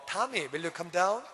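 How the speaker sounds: put-on slow, gentle call to the child; soft American parent. American parent softly asking child to come down. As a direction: ask nicely, taking your time. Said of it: "말을 부드럽게 하거든요".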